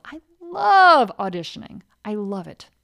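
a big delighted declaration of love; loving it. Shown as a demonstration. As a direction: swoon over auditioning. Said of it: "Maybe it's love".

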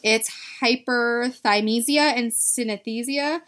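"hyperthymesia" and "synesthesia" said slowly, syllable by syllable; careful pronunciation. Shown as a demonstration. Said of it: "I can't pronounce. I'll try".

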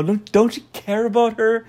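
high-pitched mock marriage counselling; Gordon Ramsay. Chef urging a husband to care for his wife, imitated high-pitched pleading. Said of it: "tell the husband".

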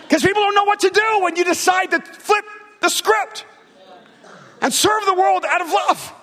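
high-pitched, impassioned preacher shout; full-force preaching. Real, not acted. Preacher urging people to serve the world, full-force shout. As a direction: cry it out to the whole congregation.

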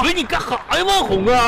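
high, whining near-crying complaint; upset, high-pitched wail of protest; tearful protest. Acted. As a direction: plead as if about to cry. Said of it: "你别哭啊".

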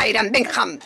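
English name in a slightly Germanic accent; Germanic-tinged English, said playfully; Germanic-sounding English. Shown as a demonstration. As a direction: demonstrate your Germanic English pronunciation. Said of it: "con una cierta pronunciación germánica en inglés".

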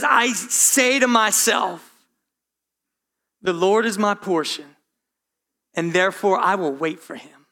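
calm words spoken to yourself; talking to himself. Retold or imitated. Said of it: "He's talking to himself".

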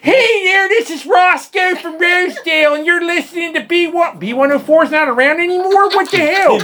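high, loud Baltimore local radio guy; mock Baltimore DJ in a thick Dundalk accent. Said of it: "worried about the whole Dundalk accent".

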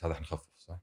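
quiet. Real, not acted. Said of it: "ها؟".

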